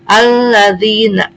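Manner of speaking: slow "alladzina" with a lingering double l; doubled lam. Shown as a demonstration. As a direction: recite "alladzina" drawn out, holding the ll. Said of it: "Karena alif lam menghadapi huruf lam".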